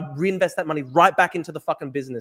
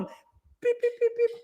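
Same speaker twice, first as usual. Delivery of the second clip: imitated beeping; 5 dB quieter, much slower than usual.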